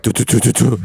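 mouthed heartbeat thumps, "do-do-do"; imitated heartbeat. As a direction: imitate a pounding heart in repeated syllables. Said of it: "My heart beats like".

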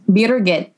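Birgit drawn out as BEER-git; Austrian name pronunciation. Shown as a demonstration. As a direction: say Birgit with a hard g after the r. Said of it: "figured out how to say it".

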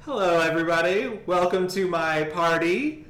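high, quick impression of an actress; a bad celebrity impression; Neve Campbell impression. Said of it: "her impression of Neve Campbell".

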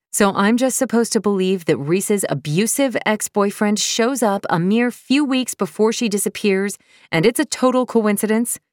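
incredulous. Acted. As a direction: pile on the disbelief. Incredulous accusation.

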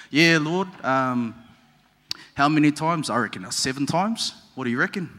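laid-back Kiwi version of a disciple; Kiwi accent. Acted. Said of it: "Let's do it in a Kiwi accent".

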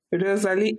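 "Rosalie" in a broad British accent; full-on British accent. Shown as a demonstration. Mock-greeting a Spanish person, full-on British accent. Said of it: "like, full-on British accent being like".

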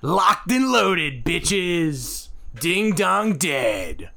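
slow, punched-out tagline; mock ad slogan. Cohost closing a fake gun-shop ad, slow mock announcer. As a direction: draw out each beat of a joke slogan.

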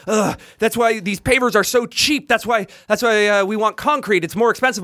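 mildly mocked flustered man. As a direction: imitate a man exasperatedly defending himself. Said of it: "he's getting really flustered".

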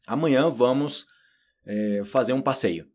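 slow, clearly spaced model sentence; deliberate teacher dictation. Shown as a demonstration. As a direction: say it slowly for learners to copy. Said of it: "fala essa pronúncia em voz alta".

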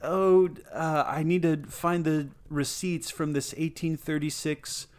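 high, whiny know-it-all; whiny nerd voice. Retold or imitated. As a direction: plead like a fussy scholar. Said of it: "crying doge is like".

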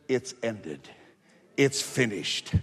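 low, hushed pronouncement; solemn, subdued quote of Jesus; quiet finality. Acted. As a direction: drop low and soft, settling the matter. Quiet answer quoting Jesus.

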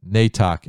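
"Nej tack" said as Swedish "nay tack"; Swedish words. Shown as a demonstration. Preacher quoting the prophet in Swedish: "Nej tack", Swedish sounds. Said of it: "in Swedish".

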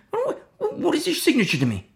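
high, laughing disbelief; mock amazement at the offer; incredulous. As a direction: scoff at it with a laugh. Mocking incredulous retort.

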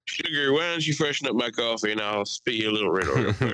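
hammed-up southern charm; southern accent. Friend teasing a buddy back from Texas, mock southern accent. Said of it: "I had a southern accent for an entire week".

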